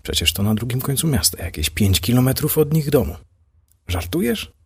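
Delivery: rising shock at the distance; amazed, voice climbing up; stunned disbelief. Acted. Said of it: "Natalia osłupiała".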